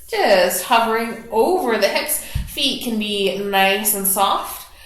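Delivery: calm guided meditation voice; guided relaxation. Acted. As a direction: ease the class into their breath. Cues hip and back work.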